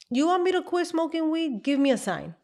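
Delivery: imitating her dare to God; retold challenge to God. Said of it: "I told God".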